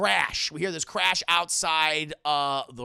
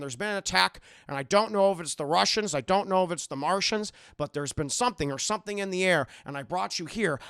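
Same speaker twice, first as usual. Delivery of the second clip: creepy captor Howard; 5 semitones lower than usual. Retold or imitated. Howard voiced in retold plot.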